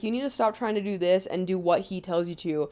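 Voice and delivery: toned-down mom's advice, lightly imitated; a touch milder, even retold advice; nicer retelling. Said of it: "She says it nicer".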